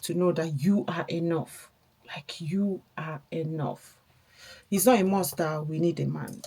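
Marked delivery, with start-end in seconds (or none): 2.1-4.0 soft breathy whisper of reassurance; hushed, just to the listener. Real, not acted. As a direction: whisper it as a gentle affirmation. Stressing self-worth to viewers.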